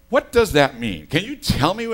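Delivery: loud, baffled retelling of the phone call. Retold or imitated. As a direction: press the caller for an answer, loud and baffled. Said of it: "And I go".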